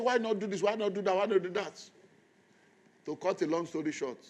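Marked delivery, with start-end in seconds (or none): 0.0-1.9 mock suggestions. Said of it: "I said".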